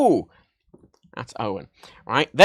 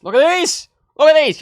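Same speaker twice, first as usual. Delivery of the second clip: excited; 11 semitones higher, 6 dB louder than usual. Real, not acted. Excited to show new gadgets.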